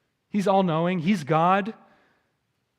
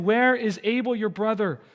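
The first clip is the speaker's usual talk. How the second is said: higher, pointed challenge; pointed question; 5 semitones higher, 3 dB louder than usual. Acted. God confronting Cain to convict him of sin, pointed. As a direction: put the question as a mild confrontation. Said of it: "with this pointed question to convict".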